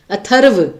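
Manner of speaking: अथर्व with clear र before व; careful pronunciation. Shown as a demonstration. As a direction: stress the र in अथर्व. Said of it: "तो व से पहले र बोला गया है". (अथर्व में व से पहले र साफ़ बोलिए)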